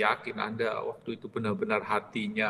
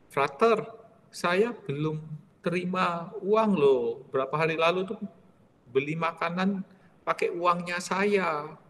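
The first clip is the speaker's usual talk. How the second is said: complaining maid; 4 semitones higher than usual. Retold or imitated. Maid tells Frater she has not been paid, aggrieved. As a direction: insist gently that she was never paid.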